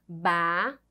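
"Bagunça" broken into ba, gun, ça with long pauses; split into syllables. Shown as a demonstration. Teacher showing children the syllables of "Bagunça", syllable by syllable. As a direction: say "Bagunça" one separate syllable at a time. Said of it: "Vamos separar esta palavra em sílabas".

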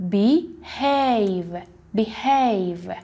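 be-HAVE, second half stronger; stress on have. Shown as a demonstration. Teacher showing stress on behave.

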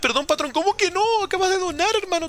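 mock pleading. Reading donation, pleading.

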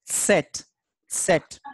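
"set" begun with a T and S sound; carefully repeated "set" for learners; German Z as TS. Shown as a demonstration. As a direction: say set slowly, as a letter name. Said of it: "T and S sound".

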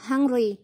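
"Hungry" with the first syllable stressed; teacher's model of "Hungry", stressed up front. Shown as a demonstration. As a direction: lean on the start of "Hungry". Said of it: "đánh trọng âm vào âm tiết thứ nhất".

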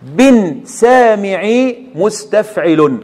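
drawn out very slowly with the foot name; match the words to the foot slowly; slow teacher's scansion against مستفعل. Shown as a demonstration. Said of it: "جي عفو يا رب مستفعل".

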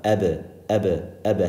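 "ebe" with a little bounce after the b; bouncy release on the b of "ebe"; qalqala bounce. Shown as a demonstration. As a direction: let the b in "ebe" bounce open. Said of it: "has a little bounce".

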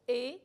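he as a stressed, held é; stressed ending. Shown as a demonstration. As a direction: lean firmly on he. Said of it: "con acento".

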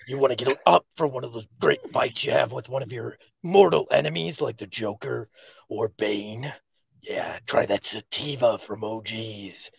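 half-hearted Batman ad read. Acted. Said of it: "Wait for Batman".

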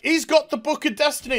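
high-pitched urgent report; mock alarm. Reviewer playing heroine warning the Monitor, mock alarm. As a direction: blurt it high like a panicked tattletale.

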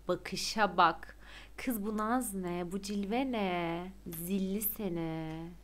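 teasing. Real, not acted. Teasing the character, slow.

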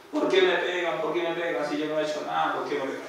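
a hint of the girl whining why they hit her; girl's plea. Possessed girl voiced in story. (imitación ligera de niña poseída que suplica)

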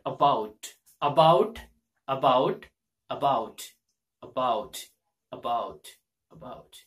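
about repeated with shifting stress and tune; drilled word about. Shown as a demonstration. Teacher drilling "about" for learners, fading to a whisper. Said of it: "like, this word".

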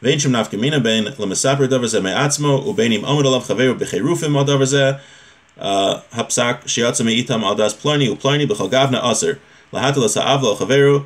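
quick-fire chavruta reading of the Hebrew; rapid text reading. Acted. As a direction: rattle off the source like a study partner. Reads Hebrew source text rapidly.

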